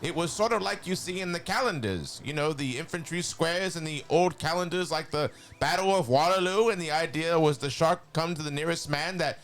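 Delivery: a hint of cartoon Skeletor telling a grim war story. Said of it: "I can probably read this in my Skeletor voice".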